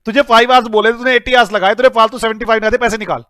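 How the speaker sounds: emphatic pretend telling-off; acted boss's reprimand; mock scolding. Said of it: "मैं दोबारा बोल रहा हूं".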